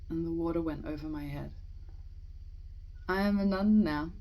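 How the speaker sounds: measured, deliberate poem recitation with pauses between phrases; poetry reading. Acted. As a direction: read the poem aloud, letting each line settle. Reads a poem aloud.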